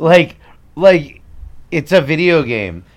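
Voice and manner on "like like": mocking valley girl. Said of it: "Like this".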